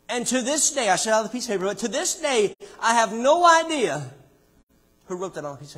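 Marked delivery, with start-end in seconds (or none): 0.1-4.1 raised pitch, building louder to the end; emphatic preaching. Real, not acted. Preacher telling his congregation of the mystery note, emphatic and rising. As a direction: preach it with mounting force.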